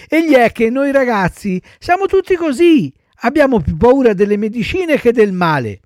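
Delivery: put-on high, loud little-boy explanation; earnest child puppet. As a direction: explain like an eager schoolboy. Voices Pinocchio explaining himself. (burattino ingenuo, voce acuta)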